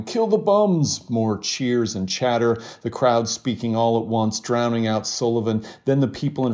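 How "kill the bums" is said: high, slow jeering call. A narrator's reading. Onlooker heckling the protesters, slow jeering call. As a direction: drag it out as a hostile heckle. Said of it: "a man calling".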